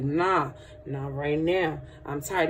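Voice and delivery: slow, low weary refusal; acted sluggish brush-off; tired refuser. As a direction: drag out the excuse, low and tired. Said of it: "You be like".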